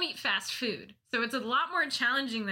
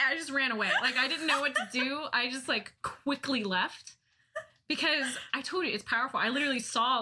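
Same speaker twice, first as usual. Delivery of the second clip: normal talking voice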